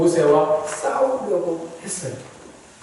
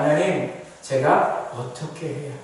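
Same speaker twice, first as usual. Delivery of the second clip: soft, lowered plea; humble prayer; 5 semitones lower, 8 dB quieter than usual. Acted. Believer asking God for guidance, low humble question. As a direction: ask God quietly, voice dropped low.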